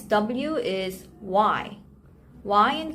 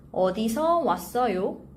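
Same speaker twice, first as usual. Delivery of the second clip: careful model phrase; faster than usual. Shown as a demonstration. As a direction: say "어디서 왔어요?" carefully for learners. Teacher models phrase slowly, then fluently.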